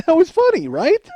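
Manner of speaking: loud, high-pitched appeal, rising at the end; defensive pleading. Retold or imitated. Son defends his joke to mom, high loud pleading. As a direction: squeak out a plea for agreement.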